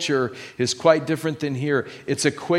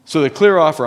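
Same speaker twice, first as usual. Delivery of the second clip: preaching emphasis; 8 dB louder, faster than usual. Real, not acted. Preacher raising voice.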